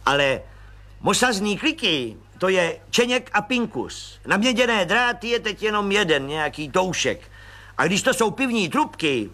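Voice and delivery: a high, eager little man's voice; high chirpy little agent; Pištora voice. Acted. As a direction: pipe it up like a cheerful small policeman. Pištora explains.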